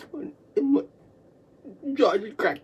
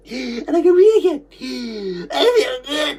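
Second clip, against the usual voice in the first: tearful relief; 2 semitones higher, 3 dB louder than usual. Real, not acted. Relief at breathing again.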